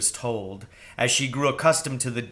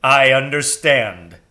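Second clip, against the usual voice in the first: owl; 9 dB louder than usual. Acted. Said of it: "said the owl".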